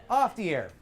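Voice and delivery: pinch it like a duck; comic nasal everyday voice; off-air duck voice. Shown as a demonstration. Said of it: "Off the air sounds like a duck".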